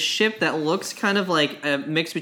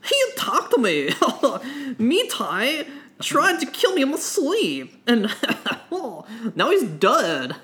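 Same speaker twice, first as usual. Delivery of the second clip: laughing villain; 4 semitones higher than usual. Acted. Ben Solo laughing madly.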